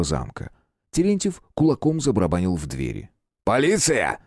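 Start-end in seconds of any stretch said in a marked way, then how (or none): 3.4-4.2 booming shout. A narrator's reading. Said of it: "зычно прокричал он".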